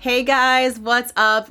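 usual speaking voice

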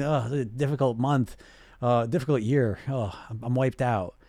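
mildly acted weariness; exhausted. Client owning up to a difficult year, mildly exhausted. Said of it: "when you're feeling exhausted".

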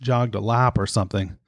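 breathing heavily between words; a little winded, as if from jogging. Real, not acted. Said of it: "wildly out of breath today".

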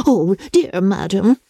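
slow, mild astonished cry; a touch of astonishment, drawn out. Acted. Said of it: "cried Missus Hill in great astonishment".

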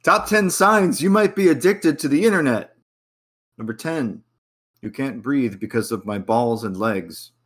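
holding back laughter; reading through suppressed giggles; stifled giggles. Real, not acted. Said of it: "I'm trying not to laugh".

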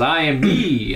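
hammed-up wizard's cry, only half shouted; mock yell. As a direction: imitate a grand yell without full volume. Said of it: "But he just yells".

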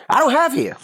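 husband baffled by hair instructions; high exasperated aside. Real, not acted.

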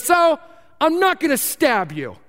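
high, odd voice reassuring you oddly; odd street stranger. Retold or imitated. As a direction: play the creepy stranger being oddly kind. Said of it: "And he goes".

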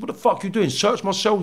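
acted-out indignant repeat; indignant challenge. Retold confrontation, repeated more forcefully.

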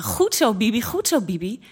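high, singsong repeated praise; bouncy, high-pitched encouragement; acted cheering. Storyteller voices Linda cheering Bibi.

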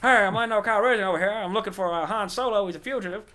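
high, loud, badly faked impersonation; terrible Tommy Lee Jones. Podcaster playing Lando as the wrong actor, terrible impersonation. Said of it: "That was a terrible Tommy Lee Jones impersonation".

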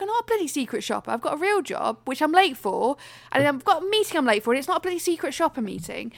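brisk indignant rant; retold rant. To the clerk who ID'd her, indignant rant. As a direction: vent at the shop clerk. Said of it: "went off on one".

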